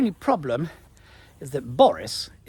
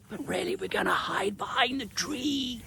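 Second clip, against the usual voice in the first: hushed secret aside; whispering the real plan; conspiratorial whisper; 8 semitones higher, 7 dB quieter than usual. Real, not acted. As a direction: let the viewers in on the trick. Aside after fibbing to bull.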